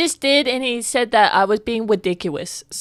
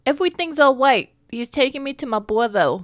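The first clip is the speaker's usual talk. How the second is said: tiny high voice; 5 semitones higher than usual. Acted. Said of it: "I'm gonna keep doing it".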